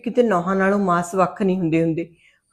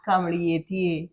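tender coaxing; 5 dB quieter, much slower than usual. Acted. Mother comforts frightened daughter.

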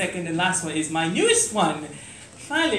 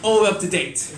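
laughing; 3 semitones higher than usual. Real, not acted. Laughs at heckle.

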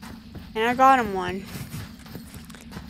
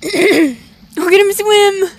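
high, loud, slow delighted cry; delighted squeal; 8 semitones higher, 12 dB louder, much slower than usual. Real, not acted. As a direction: coo over the toad in delight. Delighted at the toad.

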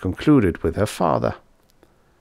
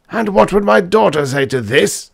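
astonished exclamation; 11 semitones higher, 5 dB louder than usual. Acted. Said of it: "exclaimed after a pause of astonishment".

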